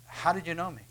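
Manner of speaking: understated wondering question; lightly voiced Nathanael. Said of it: "And Nathanael goes".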